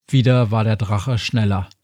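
ordinary delivery

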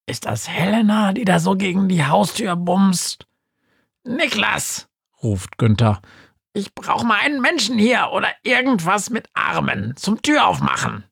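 high ghostly little voice; Günther's voice. Acted. Günther ruft nach Niklas, hohe Geisterstimme.

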